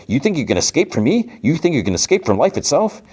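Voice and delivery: high, mocking cartoon villain voice; hammed-up high-pitched villain threat; taunting villain. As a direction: taunt the runaways with rising, incredulous questions. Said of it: "he's like".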